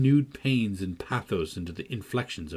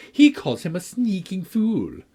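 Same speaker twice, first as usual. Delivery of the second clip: louder, higher, slow taunt; crying out; 9 semitones higher, 5 dB louder than usual. A narrator's reading. Linton taunting Cathy, loud and slow. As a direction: fling the insult at her. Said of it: "cried Linton".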